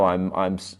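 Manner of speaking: real stutter, words restarting. Real, not acted. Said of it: "stuttering some of my words".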